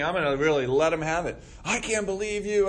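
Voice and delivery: fast, rising indignant rant; light hammed-up fury; mock outrage. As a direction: play someone itching to let them have it. Acting out retaliating angrily.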